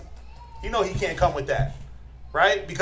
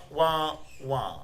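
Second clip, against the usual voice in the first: muffled low wah-wah of the Charlie Brown teacher; soft trombone-like mock adult voice; imitating the Charlie Brown teacher, soft and low; 6 semitones lower, 9 dB quieter than usual. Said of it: "Charlie Brown talk".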